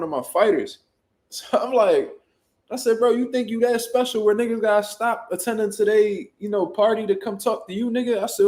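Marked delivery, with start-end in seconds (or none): 3.0-8.2 retold argument. Arguing back at the baby shower.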